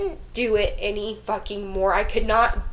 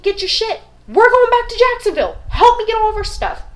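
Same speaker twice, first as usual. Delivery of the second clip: urgent loud order; 10 semitones higher, 6 dB louder than usual. Retold or imitated. Kicking husband awake to flee.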